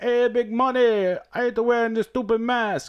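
put-on high-pitched Italian accent. Retelling what the guy at the gas station said, in a Mario impression. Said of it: "He sounds like Mario from Mario Brothers".

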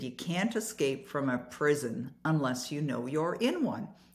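ordinary delivery

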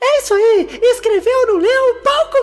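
mock outraged cartoon yell, very high and drawn-out. Recommending a cartoon compilation, the speaker quotes a character's line: Toad shouting. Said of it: "compilado do Toad gritando".

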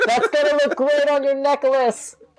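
shouting in a put-on voice. Voicing a character who taunts a wounded Minotaur: yelling in character. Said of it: "I yell out".

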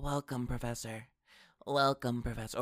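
put-on creepy, eerie little kid voice. Mocking Cerebro's voice greeting the Professor: creepy little kid Cerebro voice. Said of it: "the Cerebro voice creepy-ass little kid".

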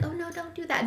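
timid, small, soft little mouse voice. Showing a weak way for a leader to refuse, little mouse voice. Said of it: "in a little mouse voice".

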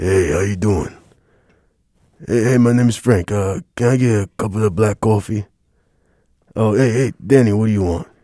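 put-on, really deep voice. Showing the listener how a man sounds, imitating a really deep voice. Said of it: "his voice is like, it's really deep".

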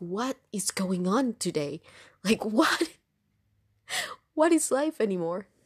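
acting baffled and incredulous. Retelling reacting to bizarre texts about rebooking, retelling baffled disbelief. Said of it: "baffled by bizarre texts".

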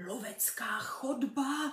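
appalled, horrified, hushed whisper full of dread. Having just seen stuffed animals mounted on the walls, he whispers in horror. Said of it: "zašeptal zděšeně".

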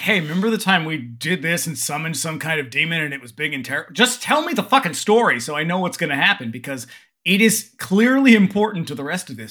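ordinary delivery

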